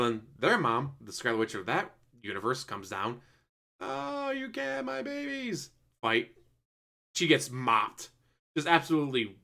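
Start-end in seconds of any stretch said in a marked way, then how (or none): 3.8-5.7 protective mother. Retold or imitated. Other Wanda defends kids.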